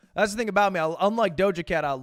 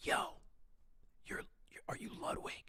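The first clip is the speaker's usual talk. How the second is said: very quiet, hushed whisper; 19 dB quieter than usual. Retelling a fan approaching in a quiet library: imitating a fan's hushed library tone. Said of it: "in a library hushed tone for the entire conversation".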